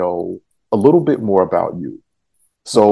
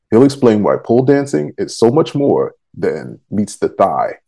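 measured announcer read of a guest teaser; scripted show intro; 3 semitones lower than usual. Acted.

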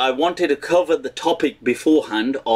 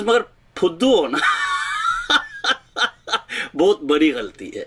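laughing punchline; 3 semitones higher, faster than usual. Retold or imitated. Uncle's punchline retold, laughing.

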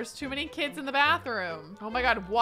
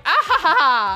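mock laugh; 4 semitones higher, 11 dB louder than usual. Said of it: "She's like".

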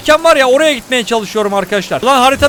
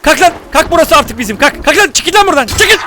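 high, raised-voice eviction; mock bossy shouting; 4 semitones higher than usual. Gamer chasing enemies off his new spot, high bossy shouting. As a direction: order them out, voice climbing higher.

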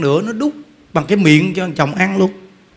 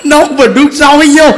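loud, higher, laughing shout; shouted punchline; 7 semitones higher, 9 dB louder than usual. Real, not acted. The storyteller shouting, laughing, as the wife pours boiling water. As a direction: blurt it out half-laughing. Dramatic climax of retold story.

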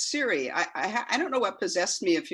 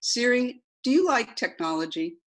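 repeating to voice assistant; 6 semitones higher than usual. Acted. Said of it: "this is the transcript of that conversation".

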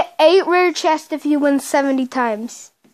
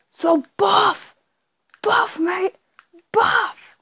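high, gushing over the character; excited; 5 semitones higher, much slower than usual. Acted. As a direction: hype up how buff he is. Showing off his buff character.

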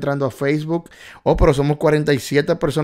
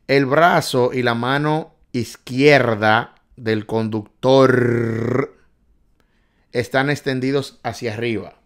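slow, louder, word by word; slow emphatic reading; 4 dB louder, slower than usual. Shown as a demonstration. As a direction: read the question out slowly and clearly. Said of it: "repeats question at normal pace".

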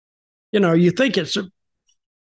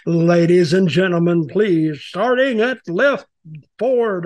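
lightly imitated arena announcer. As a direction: announce the player like a ring announcer, rising on "starting at left". Arena announcer introducing hockey players.

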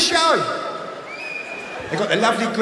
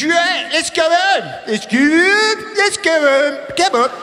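hammed-up Greg shouting; 8 semitones higher, slower than usual. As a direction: play Greg as a furious hyped TV host. Greg again.

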